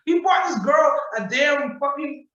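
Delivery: drawn-out indignant shout; emphatic shout. Real, not acted. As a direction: stress each word in outrage. Emphatic outrage about gift.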